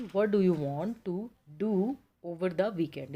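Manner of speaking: slow, with the first do weak and the second do stressed; "to DO over the weekend", the do after "to" held out. Shown as a demonstration. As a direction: set off the second do with a pause and lean on it. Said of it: "इसको ऐसे pronounce किया जाएगा".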